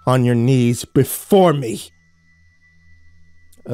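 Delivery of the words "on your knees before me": slow, demanding shout; furious command. Acted. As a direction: force him down with each word. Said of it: "he screeched".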